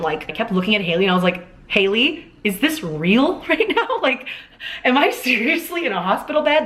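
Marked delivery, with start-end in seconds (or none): 1.7-6.7 laughing in disbelief. Retold or imitated. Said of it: "laughing about this situation".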